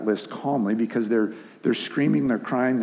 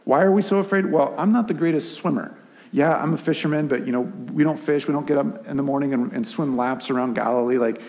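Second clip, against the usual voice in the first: lightly voiced Peter, raised pitch, over-explaining; mouthy Peter; 3 semitones higher than usual. Preacher imagines Peter lecturing Jesus, a lightly raised, chatty voice. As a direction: play Peter as a know-it-all explaining to Jesus. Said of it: "I always picture Peter".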